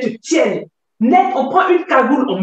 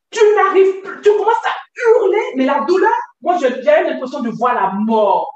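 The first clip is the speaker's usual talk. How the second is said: raised, strained voice, almost shouting; speaking loudly; 2 semitones higher than usual. Real, not acted. Woman reliving the pain of her excision, speaking loudly. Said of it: "excuse-moi quand je parle fort".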